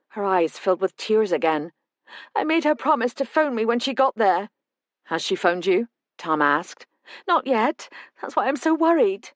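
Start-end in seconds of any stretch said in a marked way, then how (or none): 2.4-9.3 put-on raised, tearful older woman; a frightened mother spilling out her worry; a hint of a tearful mother; distressed mother. Mother worried about call.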